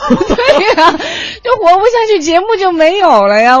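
laughing. Real, not acted. Host laughs about needing ads.

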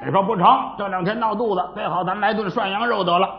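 storyteller narration. Acted. Storyteller spins a celebration scene.

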